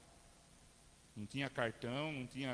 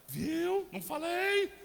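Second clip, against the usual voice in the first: much higher, louder gleeful told-you-so; triumphant I-told-you-so; 10 semitones higher, 7 dB louder, slower than usual. Retold or imitated. Wife Márcia gloating to her husband in the car, triumphant. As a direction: crow it like the wife who was right.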